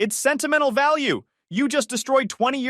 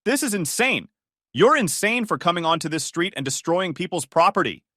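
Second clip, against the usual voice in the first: high, loud itemized rant; spitting fury; 7 semitones higher, 3 dB louder than usual. Acted. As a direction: spit out every cost. Joyce tallies costs.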